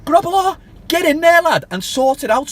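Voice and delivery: a fed-up fan losing patience; raging fan demanding the keeper be dropped; furious rant. Real, not acted.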